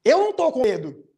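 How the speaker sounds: "Eu não tô com medo" pitched high and loud, then falling; exclamation. Shown as a demonstration. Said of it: "tem um ponto de exclamação no final".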